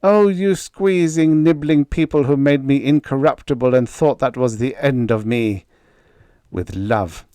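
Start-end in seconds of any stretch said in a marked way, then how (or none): 0.0-5.6 exultant taunting call, much higher and louder; cried out to the sky. Acted. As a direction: shout defiance up at the sun. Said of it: "cried in the direction of the sun".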